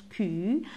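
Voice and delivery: "Q" said as a drawn-out "ku" with French U; C with U sounded out. Shown as a demonstration. Teacher showing how C with U sounds, slow "Q". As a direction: stretch "Q" out as one slow syllable. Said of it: "ça prononce".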